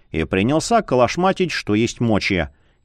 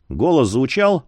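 plain reading voice

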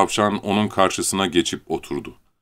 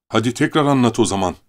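sly; 4 semitones higher, faster than usual. Acted. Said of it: "Leni kurnazca".

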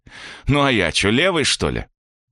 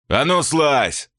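mock yell; 6 semitones higher, much slower than usual. A narrator's reading. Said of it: "заорал помогало".

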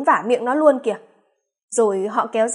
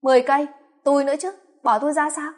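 eager interrupting; 3 semitones higher, faster than usual. Acted. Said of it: "Lam cướp lời hẹn".

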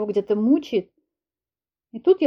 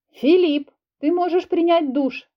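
higher, louder call across the house; 8 semitones higher, 3 dB louder, slower than usual. Acted. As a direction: call him from the other room. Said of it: "крикнула я".

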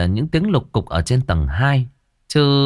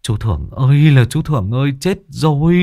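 panicked calling; 5 semitones higher than usual. Acted. Thiên cries out in panic for Thưởng upstairs. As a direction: call out in alarm.

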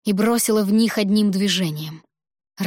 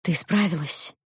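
weary and worn out; tired voice. A narrator's reading. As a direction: speak as if drained from battle. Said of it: "услышала усталый голос Эрина".

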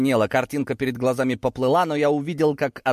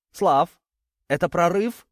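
higher, urgent cry in narration; called-out question; 7 semitones higher than usual. A narrator's reading. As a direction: call out an anxious question, pitch raised. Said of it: "крикнула мне Юлианна". (выкрикнутый вопрос повыше)

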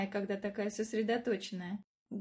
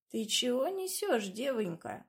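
put-on mumbling old woman; 2 semitones higher, slower than usual. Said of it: "прошамкала она".

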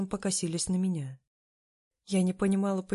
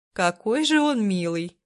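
slow, louder drawn-out gushing; 3 semitones higher, 6 dB louder, slower than usual. Acted. Yuyor gushing over Demir, slow drawn-out swoon. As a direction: stretch every word, swooning. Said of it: "протянула Юйор".

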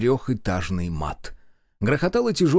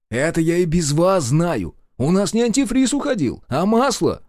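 louder, higher annoyed retort; irritated; 7 semitones higher, 4 dB louder than usual. Acted. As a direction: snap back at them. Hero annoyed at mechanics. (раздражённо)

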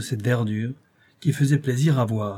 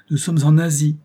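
louder, eager cry of discovery; a young man's thrilled exclamation; excited exclaim; 4 semitones higher, 5 dB louder than usual. A narrator's reading. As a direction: announce it with rising excitement. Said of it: "m'écriai-je".

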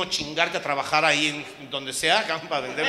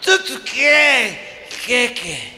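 high, loud, slow tú tú; stuck on every syllable; tongue-tied with shock; slow panicked stammer; 10 semitones higher, 7 dB louder, much slower than usual. Retold or imitated. Husband stammering, drawn out.

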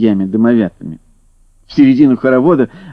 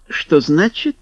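teasing; 5 semitones higher than usual. Acted. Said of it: "дразнилась она".

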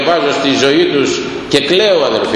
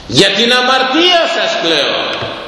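grieving elder's answer; 8 semitones higher, slower than usual. Retold or imitated. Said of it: "the elder's answer".

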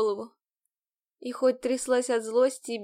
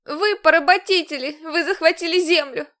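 loud, higher accusing cry; accusing shout; 5 semitones higher, 8 dB louder than usual. A narrator's reading. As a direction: hurl the accusation at him. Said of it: "Продолжила обвинять я".

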